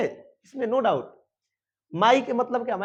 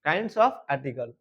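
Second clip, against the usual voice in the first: slow heading read; 5 semitones lower, much slower than usual. Shown as a demonstration. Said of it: "देखिए".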